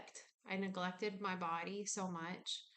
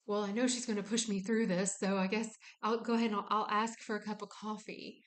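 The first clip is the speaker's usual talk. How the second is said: louder, resigned going-along voice; resigned fawning; 4 dB louder than usual. Retold or imitated. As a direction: give in with a sigh of duty. Body voiced in fawning response.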